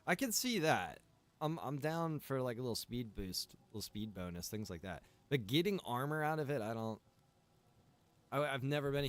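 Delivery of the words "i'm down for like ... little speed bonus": ordinary delivery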